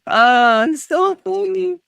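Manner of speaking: mock the joker in a silly voice; sarcastic mock voice. Real, not acted. Sarcastic reply to chat joke.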